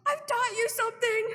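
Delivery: high, loud, thrilled put-on voice; proud British friend. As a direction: play the delighted Brit friend. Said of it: "she was like".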